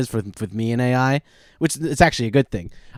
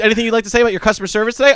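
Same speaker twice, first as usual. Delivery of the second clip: chipper chatbot voice; 6 semitones higher, much faster than usual. Retold or imitated. Voicing chatbot survey.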